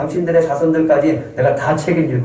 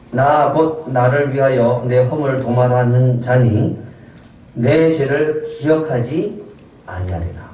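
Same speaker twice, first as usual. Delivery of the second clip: slow scripture reading; slower than usual. Shown as a demonstration. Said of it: "한번 같이 읽어볼까요".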